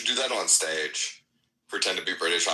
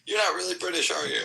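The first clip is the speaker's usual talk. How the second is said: suspicious local; 11 semitones higher than usual. Retold or imitated. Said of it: "until somebody's like".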